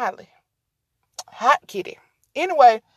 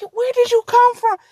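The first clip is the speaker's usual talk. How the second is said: much higher, talking to the cat; 12 semitones higher, 5 dB louder than usual. Real, not acted. Talking to the stray cat in a high voice. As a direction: call out to a stray.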